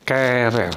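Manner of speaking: querer drawn out as "ke-rer"; silent u. Shown as a demonstration. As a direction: say querer carefully, k straight into e. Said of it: "Jadi diucapkannya mulai E-nya ini".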